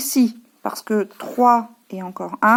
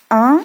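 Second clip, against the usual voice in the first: un said louder and held out; louder teaching emphasis on un; stressed rhyme sound; 7 dB louder than usual. Shown as a demonstration. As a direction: make the child hear the un ending. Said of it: "ça finit par le son un".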